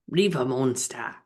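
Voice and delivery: put-on Australian accent. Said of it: "with an Australian accent".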